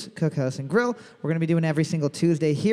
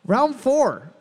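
quiz host read; 2 semitones higher than usual. Acted. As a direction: announce it like a pub trivia host. Reads trivia question as host.

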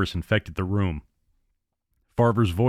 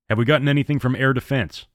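barked; 4 semitones higher than usual. Acted. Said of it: "Farver barked at Wyatt".

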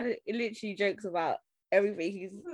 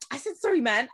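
higher, impatient retold retort; exasperated apology; 3 semitones higher than usual. Friend who hurt her, imitated as exasperated. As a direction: snap back, imitating the offender. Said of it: "I used to get so annoyed".

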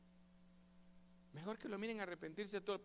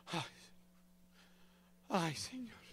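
groaning prayer; slower than usual. Retold or imitated. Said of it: "uno solo puja en la oración".

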